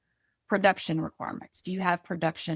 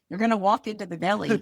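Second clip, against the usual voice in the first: mock Northeast accent; much faster than usual. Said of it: "something we don't say down south".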